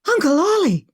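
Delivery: high, loud cry of recognition; loud startled shout. Acted. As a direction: shout across the camp to her uncle. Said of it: "she shouted".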